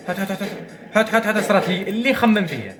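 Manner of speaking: high laughing "come on" chant; excited urging. Real, not acted. Gamer urging the game to deal his card, high and laughing. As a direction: egg the cards on, laughing.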